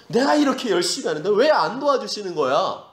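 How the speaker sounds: aggrieved, pleading complaint, acted; complaining. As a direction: act out a believer protesting to God. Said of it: "이 불평이 맞는 겁니까".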